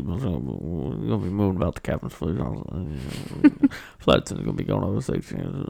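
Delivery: low mock pilot intercom voice; airline pilot announcement. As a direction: play a goofy airline captain. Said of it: "Sound like a pilot".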